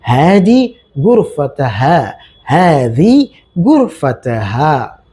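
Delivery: हादी गुरफत said slowly and clearly twice; slow Arabic drill. Shown as a demonstration. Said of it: "अरबी में कहेंगे".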